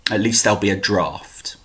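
hushed closing whisper. Acted. Poet ending the poem for his audience, soft whisper. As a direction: drop to a whisper for the punchline.

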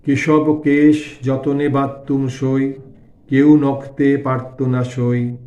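slow, drawn-out lyrical recital; devotional verse recitation. A narrator's reading. Narrator voicing Thakur's song of longing for Shyam, slow lyrical recitation. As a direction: recite the love lament slowly, stretching line endings.

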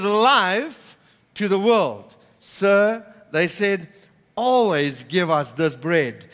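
measured Bible reading to the congregation; scripture reading. Acted. Pastor reading John to the congregation, measured reading. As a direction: read the gospel passage with steady weight. Reads scripture passage aloud.

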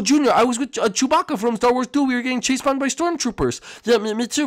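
put-on a scared little boy shouting in a strange place; panicked high kid voice. Same kid voice.

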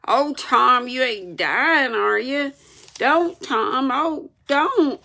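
high, distressed begging; frightened plea. A narrator's reading. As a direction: beg as if someone is dying. Sid fears Tom is dying.

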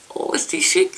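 voiced and rising with delight; bright gushing over the palette. Real, not acted. Marvels at palette, repeats phrase.

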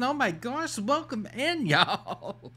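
high, chirpy streamer greeting with a laugh; mock her switch into sweet hostess mode; sudden sugary welcome-to-the-stream voice; imitating her bubbly welcome. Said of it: "but then the money comes in".

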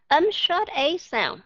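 "Âm short A sound" slowly, each word drawn out clearly; slow teacher demo of "short A sound"; slow, careful "short A sound". Shown as a demonstration. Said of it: "Các bạn mở miệng ra lớn".

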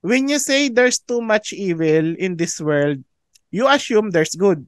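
quoting a preacher slowly and deliberately; measured, unhurried quotation; slow quoted line. Retold or imitated. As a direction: read it out slow, giving each clause weight. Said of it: "Sabi niya".

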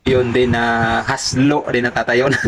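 talking through a real laugh, slowed down. Real, not acted. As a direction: laugh out the words while telling it. Natatawa habang nagkukuwento. (natatawang nagkukuwento)

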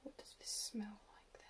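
whispered full question. Real, not acted. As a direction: hush it, ask softly. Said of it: "repeats it, whispered in full".

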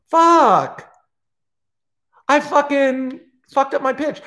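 real exasperation at his own mistake; real frustration. Real, not acted. A comedian who botched his pitch, cursing himself in frustration. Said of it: "I fucked up my pitch".

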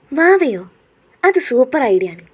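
light up at the idea; excited squeal of agreement; delighted. Acted.

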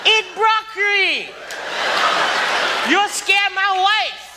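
shouting down the big eater who won't leave; screaming restaurant owner. Retold or imitated. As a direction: yell at the customer like a furious buffet owner. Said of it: "He started screaming at me".

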